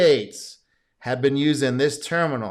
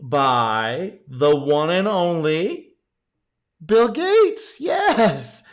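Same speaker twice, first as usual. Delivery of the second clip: excited announcement; 3 semitones higher, 3 dB louder, much slower than usual. Pretend. Host introducing a cameo by Bill Gates, excited fanfare. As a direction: announce the star like a hype man, slowly building to a shout.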